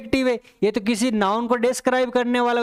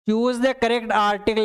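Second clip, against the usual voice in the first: slow dictation; much slower than usual. Shown as a demonstration. Reading out the exam question.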